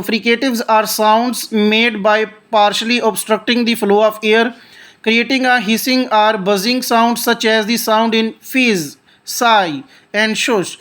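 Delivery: reads each English word slowly and deliberately; slow textbook reading. Shown as a demonstration. Teacher reading the definition aloud to students, slow and deliberate. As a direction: read it out like a careful textbook recitation.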